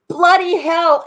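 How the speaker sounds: quick British "Bloody hell" with "bloody" said loud and high; imitating Alex's British exclamation "Bloody hell"; British accent. Viewer Alex's phrase read out in a British accent. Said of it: "Alex's Great Britain accent saying".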